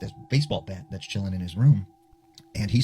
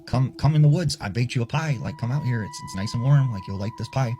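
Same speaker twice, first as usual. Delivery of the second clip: luring grandma voice; 4 semitones higher than usual. Retold or imitated. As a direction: lure the boy into the woods with a sugary call. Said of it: "I hear my grandma's voice coming from the forest".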